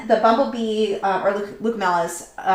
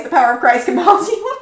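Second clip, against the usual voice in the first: lightly mock exorcist, higher, with a laugh; 7 semitones higher, 4 dB louder than usual. Streamer reading viewer's joke, in playful exorcist voice. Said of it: "exorcist voice".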